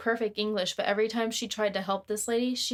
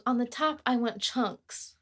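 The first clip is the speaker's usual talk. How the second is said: put-on German accent; 2 semitones higher than usual. Retelling a rude deli customer's order, mild mock German accent. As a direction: quote the demanding customer in a faint German accent. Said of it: "In her German accent".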